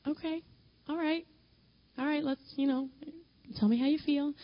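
tentative, soothing listener on a late call; imitated patient listener. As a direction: act out gently coaxing a crying friend to talk. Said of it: "I would be on the phone like this".

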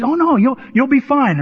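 high, breezy counselor reassurance; mock reassurance. Counselor reassures worried student.

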